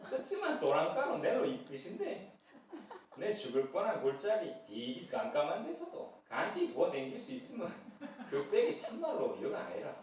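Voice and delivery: drawn-out Gyeongsang dialect delivery. Pretend. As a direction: read the psalm like a blunt Gyeongsang man. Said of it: "경상도 버전".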